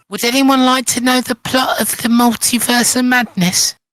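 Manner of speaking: put-on high, childlike voice. Joking with friends, doing a Tom Holland impression. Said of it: "Sorry, I'll stop".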